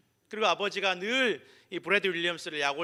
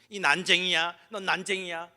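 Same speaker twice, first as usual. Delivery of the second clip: louder-starting playground jeer, lightly acted; mock teasing; 5 dB louder than usual. Child mocking a small classmate on the first day, lightly teasing. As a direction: taunt like a teasing kid, half-played. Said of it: "막 웃으면서 손가락질하면서 놀리는 거예요".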